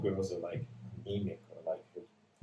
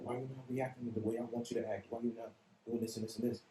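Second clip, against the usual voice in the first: higher, whiny complaint; mock upset person; 5 semitones higher than usual. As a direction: whine like they're upset. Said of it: "It's like".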